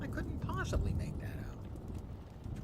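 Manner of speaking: a prissy affected gentleman; hammed-up high prim voice; mock posh. Mock posh repeat of line.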